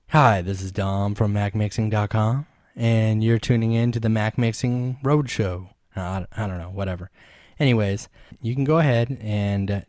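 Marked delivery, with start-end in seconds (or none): 0.1-5.7 full-bodied radio DJ intro. Shown as a demonstration. Tutor re-doing his intro as a radio host, radio voice. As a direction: greet the listeners like a radio host. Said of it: "a really good radio voice".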